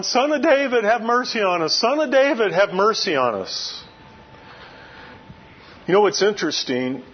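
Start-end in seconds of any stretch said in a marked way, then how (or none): 0.0-3.8 mild pleading call, Son of David pitched high each time; calling out for mercy. Retold or imitated. Two blind men calling after Jesus on the road, a mild pleading cry. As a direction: cry it out like a beggar trailing behind. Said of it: "these guys are behind him going".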